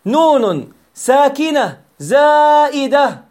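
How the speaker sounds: نون drawn out slowly and stressed; teacher stressing نون in نون ساكنة زائدة. Shown as a demonstration. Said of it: "أي فوق النون سكون".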